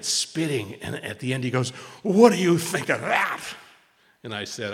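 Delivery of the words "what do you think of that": angry challenge. Retold or imitated. Angry man confronting speaker.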